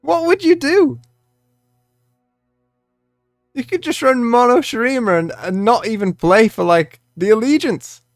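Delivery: calm start building into a loud rant; calm turning angry. Real, not acted. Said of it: "obviously this is a rant".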